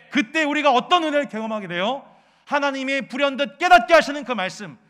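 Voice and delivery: loud, high fervent preaching; preaching at full force. Acted. Pastor urging the congregation, loud fervent preaching.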